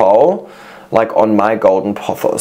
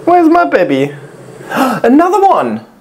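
very high, cutesy squeal; slower than usual. Real, not acted. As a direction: coo over cute cats in a tiny squeaky voice. Cooing over cats in a viewer's video.

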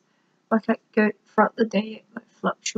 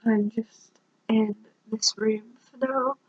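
monotone. Real, not acted. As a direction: talk as if about to shut down. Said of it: "You are literally talking like this".

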